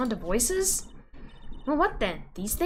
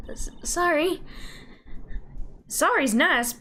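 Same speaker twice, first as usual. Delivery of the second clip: Southern woman; 3 semitones higher than usual. Acted. Angry Southern woman character.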